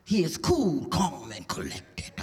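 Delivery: imitating a man claiming to be composed; mock cool composure. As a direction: let it settle down, slow and unruffled. Acts man describing a cool man.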